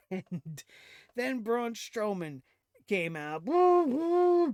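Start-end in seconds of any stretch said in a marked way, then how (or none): 3.4-4.5 high, loud hammed-up woo; mock crowd cheer. Imitating fans cheering Braun Strowman's entrance, a high loud woo.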